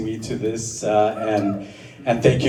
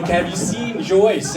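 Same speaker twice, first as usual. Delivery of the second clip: asking around; 6 semitones higher, 4 dB louder, slower than usual. Retold or imitated. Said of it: "but, you know".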